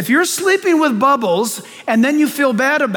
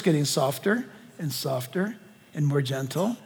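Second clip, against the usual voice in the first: getting softer and gentler; 8 semitones lower, 10 dB quieter than usual. Shown as a demonstration. Preacher shows church God's voice softening, fading to gentle. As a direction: fade from soft to very quiet, low.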